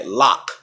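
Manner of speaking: "lock" as American "lahk"; American pronunciation. Shown as a demonstration. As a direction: open "ah" vowel in "lock". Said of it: "In America, you may hear".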